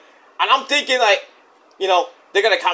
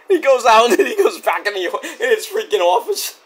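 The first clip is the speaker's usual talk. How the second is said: laughing; 4 semitones higher than usual. Real, not acted. Cracking up while retelling the skit.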